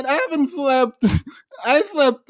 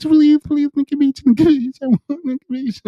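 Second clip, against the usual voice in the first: pleading whine, louder; mock begging; 4 semitones higher, 3 dB louder than usual. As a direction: beg mockingly. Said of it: "Just begging".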